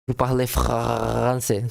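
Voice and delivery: slow careful "Vous parlez français" with a throaty French r; deliberate learner's French, slowed down; French throat r. Shown as a demonstration. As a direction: drag out "parlez" and push the r from the throat. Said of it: "I'm trying to act this throat thing".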